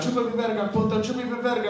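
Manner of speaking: high-pitched, imitated angry yell; mock yelling. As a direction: act out yelling it across the street. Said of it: "He was yelling out".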